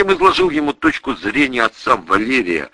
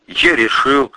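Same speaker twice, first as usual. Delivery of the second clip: ordinary delivery, nothing marked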